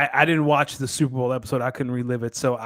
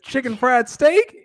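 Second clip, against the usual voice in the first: higher, slow mimicry of her question; imitating her; 11 semitones higher, 5 dB louder, slower than usual. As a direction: drawl it out like her. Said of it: "And then she said".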